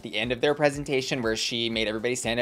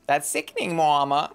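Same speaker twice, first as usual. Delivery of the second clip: drag slang; 3 semitones higher than usual. Retold or imitated. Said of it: "comparing things like".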